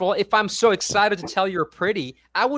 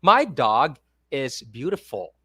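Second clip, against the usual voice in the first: slow statement ending low on beautiful; falling tone; 5 semitones lower than usual. Shown as a demonstration. Tutor showing students a falling tone statement. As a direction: let "beautiful" fall at the end. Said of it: "For example".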